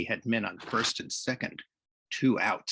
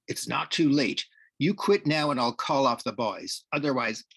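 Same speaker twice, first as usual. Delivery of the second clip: raised, pressing ultimatum; understated bully's ultimatum; mild menacing threat; 3 semitones higher, 4 dB louder than usual. Acted. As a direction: lean on him with a threat. Catcher threatens pitcher on the mound.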